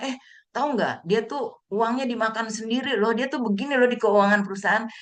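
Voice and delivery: lightly mimicked gossipmonger, pitch lifted; acted gossip. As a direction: play someone passing on juicy slander. Acting out slanderous gossip. (bergosip, menirukan tukang fitnah)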